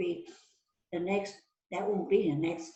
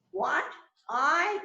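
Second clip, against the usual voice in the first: shocked disbelief; 8 semitones higher than usual. Acted. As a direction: feign utter shock. Suspect reacts to the accusation.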